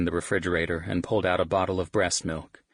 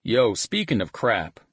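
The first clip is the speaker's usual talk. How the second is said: put-on Texan accent; 5 semitones higher, 5 dB louder than usual. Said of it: "he announced in his Texan accent".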